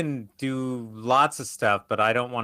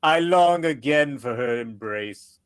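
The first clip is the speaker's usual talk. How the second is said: Korg voice; 2 semitones higher, 3 dB louder, slower than usual. Acted. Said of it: "Korg is like".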